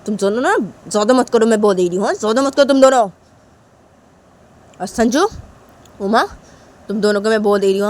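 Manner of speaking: loud, stern warning; stern mother. Acted. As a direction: lay down the law. Mother warns the children. (ज़ोरदार, सख़्त चेतावनी)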